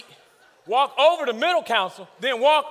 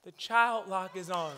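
much softer and lower, timid; meek child reply; 5 semitones lower, 9 dB quieter than usual. Retold or imitated. The son quietly points out the child lock, much softer. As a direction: say it small and sheepish.

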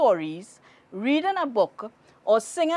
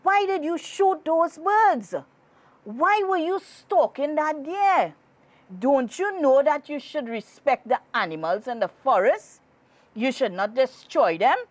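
angry scolding; 5 semitones higher than usual. Acted. Angry forest spirit scolds hunters.

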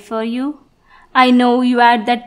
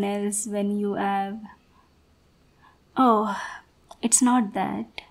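soft, clingy sweetheart talking close; gently manipulative girlfriend; possessive lover; 4 dB quieter than usual. Acted. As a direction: coax a sad partner away from his family. Plays possessive partner role.

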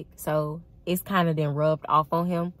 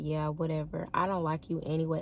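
playing hard to get; 5 dB quieter, faster than usual. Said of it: "how women be playing hard".

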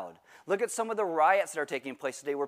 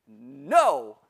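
loud no; 3 semitones lower, 6 dB louder than usual. Retold or imitated. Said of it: "You know what I said?".

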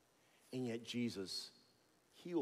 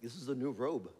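diva; 2 semitones higher, 7 dB louder than usual. Retold or imitated. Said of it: "is Jesus the diva".

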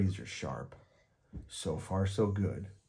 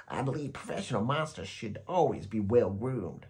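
a hint of the high silky monster; prim monster proud of its grooming; lightly silky monster; 3 semitones higher than usual. A narrator's reading. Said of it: "high, silky voice".

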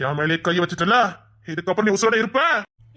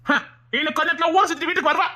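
mocking laugh; 4 semitones higher than usual. Mocking laugh while dismissing worry.

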